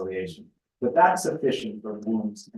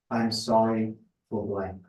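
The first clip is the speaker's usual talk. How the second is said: sincere apology model; 2 semitones lower, 4 dB quieter than usual. Shown as a demonstration. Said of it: "That's the proper response".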